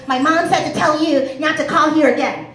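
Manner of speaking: lightly voiced child reciting a message; a hint of a little kid on the phone. Child relaying mom's message to the collector, lightly voiced kid. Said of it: "It was a kid answered the phone".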